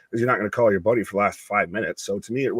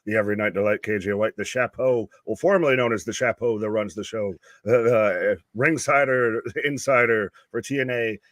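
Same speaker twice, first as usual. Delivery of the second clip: ringmaster. Pretend. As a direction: announce them like a circus ringmaster. Mock ring introduction of cohosts.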